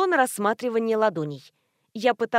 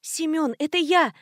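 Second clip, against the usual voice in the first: wailing shout; 6 semitones higher than usual. A narrator's reading. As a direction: cry it out so he finally hears. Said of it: "завопила я".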